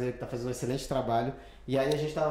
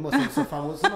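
laughing denial; 2 semitones higher, 6 dB louder, faster than usual. Retold or imitated. Laughing denial of being famous.

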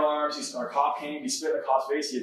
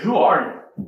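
louder, imploring question, imitating tears; retold tearful shout; 3 semitones higher, 6 dB louder than usual. Kid coming back out in tears, retold tearful shout. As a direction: cry it out in retold astonishment. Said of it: "Like, tears".

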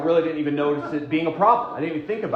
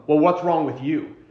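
louder, mock accusing snap; 2 semitones higher, 6 dB louder than usual. Shown as a demonstration. Spouse blaming a partner instead of helping, mock accusing. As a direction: throw it at them as a mild mock accusation. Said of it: "not from".

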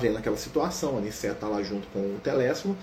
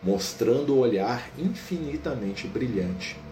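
slow, calm book narration; story narration; 3 semitones lower than usual. A narrator's reading. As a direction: narrate the scene gently and evenly.

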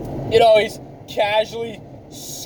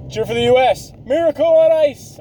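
rising into a higher, louder cheer; mock cheering; 3 semitones higher, 4 dB louder than usual. Hockey fan switching allegiance to the US, mock cheering. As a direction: build to a rallying cry.

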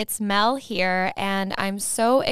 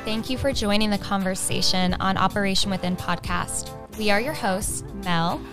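polished host welcome read; measured intro read; scripted podcast intro. Acted. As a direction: introduce the show like an announcer.

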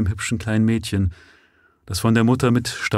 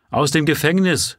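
shouted; 8 semitones higher than usual. Acted. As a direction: yell it out in scorn. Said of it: "schrie eine der Frauen".

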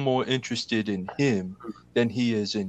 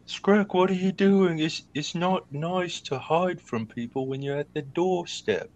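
chiding call; 3 semitones higher than usual. Acted. Teasing Scrack for hiding, mock scolding. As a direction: tease the hiding friend.

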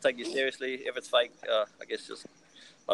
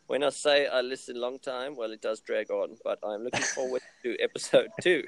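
lightly put-on French accent. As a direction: read it with a hint of French. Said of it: "putting on a French accent was gold".

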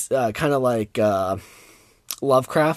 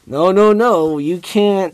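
mock corporate voice; 6 semitones higher, 7 dB louder than usual. Mocking the company's stance.

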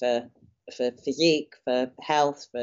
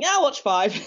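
laughing; 10 semitones higher, 3 dB louder than usual. Retold or imitated. Self-quote, admitting binge-watching.

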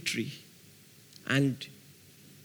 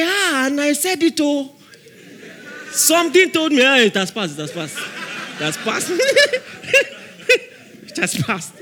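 mock excited; 8 semitones higher, 4 dB louder than usual.

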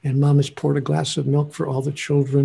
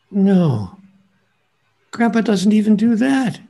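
usual speaking voice

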